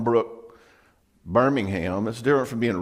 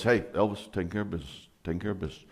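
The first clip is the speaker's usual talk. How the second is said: catchphrase; 4 semitones lower, 7 dB quieter, much faster than usual. Retold or imitated. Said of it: "their little catchphrase was".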